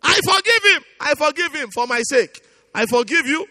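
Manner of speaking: modelled prayer of forgiveness. Shown as a demonstration. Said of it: "you need to let go".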